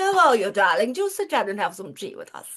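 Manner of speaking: lightly imitated posh London accent; a hint of posh London accent, inviting. Royal lady invites her to tea in a mild posh London accent. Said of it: "Very posh London accent".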